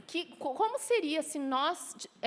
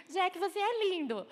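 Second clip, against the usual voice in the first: put-on higher, sugary child voice; sweet little girl; 7 semitones higher than usual. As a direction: coo it like a goody-two-shoes girl. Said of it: "uma sonsinha". (imitando a menina sonsa, voz aguda e doce)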